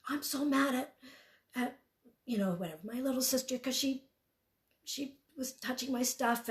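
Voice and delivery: put-on upset child. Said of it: "She's like".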